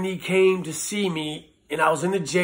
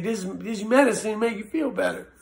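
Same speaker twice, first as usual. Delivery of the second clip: lightly voiced small child, higher; a hint of a sweet little boy; little son's voice; 4 semitones higher than usual. Father quoting his small son, lightly childlike.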